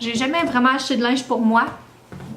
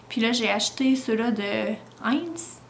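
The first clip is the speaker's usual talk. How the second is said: whispering; 5 dB quieter than usual. Real, not acted. Baby asleep nearby.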